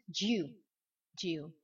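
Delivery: "do you" said as one syllable, dju; contraction. Shown as a demonstration. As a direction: say "do" as a short dju. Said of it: "un D apostrophe et on prononce". (« do you » réduit à dju)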